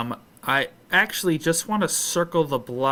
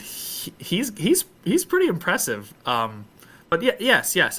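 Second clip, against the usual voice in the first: higher, stammering, unsure voice; a fake Marvo flustered by praise; nervous Gregory; 4 semitones higher than usual.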